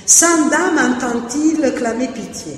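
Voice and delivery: sans dame entend-il clamer pitié declaimed slowly; slow verse recitation; reciting a verse draft. Shown as a demonstration. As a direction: read the new version slowly, weighing each beat. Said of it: "il va essayer de changer".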